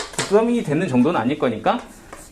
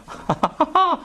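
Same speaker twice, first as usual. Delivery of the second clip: short laugh; 13 semitones higher than usual. Real, not acted. Teacher laughs at own answer.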